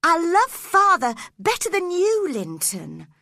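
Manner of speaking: lightly voiced upset girl; Cathy rebuking Linton. A narrator's reading.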